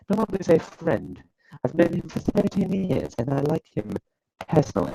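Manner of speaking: put-on British accent. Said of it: "British, British accent all of a sudden".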